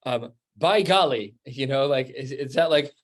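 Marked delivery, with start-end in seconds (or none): 0.6-1.3 a hint of an old-fashioned oath, a bit louder; mock exclamation. Teacher giving a modern example of a vow, mock exclamation. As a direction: toss it off like a mild folksy oath. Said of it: "in our way would be like".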